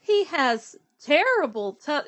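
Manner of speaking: a touch of spooky storytelling; mouse describing. Acted. Mouse warning the fox about the Gruffalo, mildly dramatic. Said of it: "he's talking about the Gruffalo".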